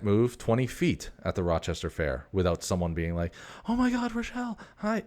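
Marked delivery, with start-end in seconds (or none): 3.7-5.0 high, squealing excited hello; gushing fan greeting. Retold or imitated. Stranger at the fair spotting Rochelle, squealing an excited hi.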